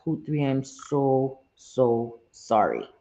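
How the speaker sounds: slow, low, heartfelt sorry; tender condolence. Real, not acted. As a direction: linger on each word, moved. Condolences to grieving viewer.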